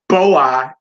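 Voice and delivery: "boa" with BO hit hard; stress on bo. Shown as a demonstration. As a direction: punch the first syllable of "boa". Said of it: "is stressed on".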